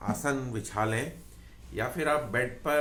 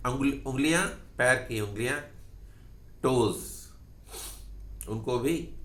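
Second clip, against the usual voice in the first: measured yoga nidra guidance with long pauses; name each part, then leave a pause; guided body scan. Acted. Yoga teacher guiding listeners through relaxing feet and calves, guided body scan.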